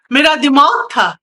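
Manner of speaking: emphatic outcry, punching दिमाग; anguished cry. Acted. Dementia patient lamenting her lost mind, crying out. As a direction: cry it out, leaning hard on दिमाग. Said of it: "ये कौन चिल्ला रहा है".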